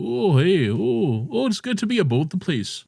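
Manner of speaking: put-on lightly done Minnesotan accent with a chirpy "oh, hey"; sing-song Minnesota-Canada greeting, a touch put on; Minnesotan Canadian accent. Showing co-host his Minnesotan slash Canada voice, a light Minnesotan accent. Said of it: "my Minnesotan slash Canada voice".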